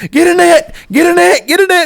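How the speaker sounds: urgent high-pitched holler, repeated; yelling. Retold or imitated. Angler calling his buddy for a net, yelling. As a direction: re-enact frantic yelling way up high. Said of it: "And I'm yelling at Jedediah".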